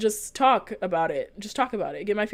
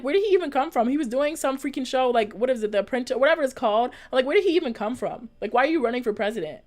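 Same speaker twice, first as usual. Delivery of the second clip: higher-pitched, incredulous questioning; retold bafflement; 5 semitones higher than usual. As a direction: replay your disbelief in a raised pitch. Acting out her baffled reaction.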